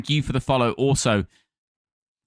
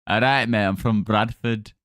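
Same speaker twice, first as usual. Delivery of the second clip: attempted West Yorkshire accent; Bradford accent; 4 semitones lower than usual. Shown as a demonstration. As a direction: try out a Bradford voice. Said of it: "how people sound in Bradford".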